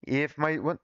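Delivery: put-on laboured, heavy Southern accent; thick Southern accent. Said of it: "why did I make his accent so thick".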